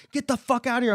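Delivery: high-pitched mock order to leave; imitated angry attacker. Mimicking the attacker chasing him off.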